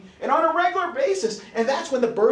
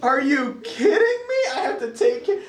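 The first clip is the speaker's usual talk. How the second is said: higher, incredulous protest; mock exasperation; 6 semitones higher than usual. Partner asked to nurse the patient, mock exasperation. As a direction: imitate a put-upon partner, pitch raised. Partner balks at nursing duty.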